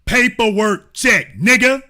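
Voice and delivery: hype call-out. Acted.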